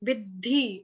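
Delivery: विद्धि with force on the द्ध; stressed pronunciation. Shown as a demonstration. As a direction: hit the द्ध in विद्धि hard. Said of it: "थोड़ा दम लगाओ".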